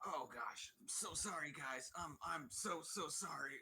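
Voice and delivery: put-on drunk voice. Playing a character who stumbles drunkenly and spills drinks: acting drunk while apologizing. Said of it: "just drunkenly, like, stumble".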